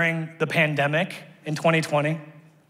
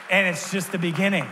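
proclaimed; 3 semitones higher than usual. Shown as a demonstration.

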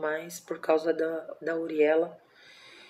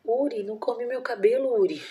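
talking to the pet; 5 semitones higher than usual. Real, not acted. Guinea pig chewing her hair.

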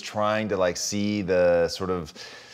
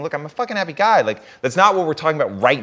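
imitating Goggins; 7 semitones higher, 6 dB louder, faster than usual. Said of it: "caveat it by saying".

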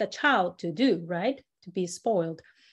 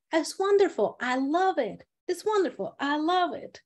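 higher, sincere "wonderful"; mean it, glowing with joy; honest delight; 5 semitones higher than usual. Shown as a demonstration. Teacher showing honest love for a gift. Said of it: "it's very simple".

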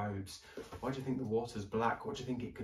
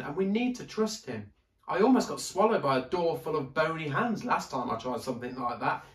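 put-on higher, louder pleading boy; worried boy; 6 semitones higher, 5 dB louder than usual. A narrator's reading. Daniel warning Ellie about searching, higher worried boy. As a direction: warn her urgently.

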